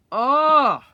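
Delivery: bright ringing oh; delighted oh. Real, not acted. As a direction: exclaim at the texture. Seeing striations.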